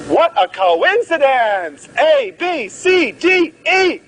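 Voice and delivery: high, hammed-up surprise, A B C D E climbing; mock astonishment. Mock surprise, listing letters.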